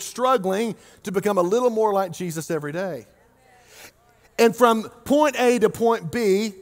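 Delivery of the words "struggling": "struggling" set out with deliberate emphasis; stress on struggling. Real, not acted. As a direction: lean on "struggling". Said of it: "I want to emphasize that word".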